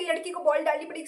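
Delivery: quick sarcastic echo of the taunt; mocking repeat. Retorting to the bowler by echoing his taunt, fast and sarcastic. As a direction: throw his words back at him, fast and scornful. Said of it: "ये कौन सी बात है".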